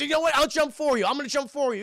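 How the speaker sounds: high, loud acted outburst; manic threat. Crazed cop to jumper offering to jump, high and loud. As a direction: goad them like a crazed cop.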